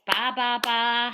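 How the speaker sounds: bleating like a sheep; sheep baa. Shown as a demonstration. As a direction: do the sheep sound. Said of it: "Sheep says hello like this".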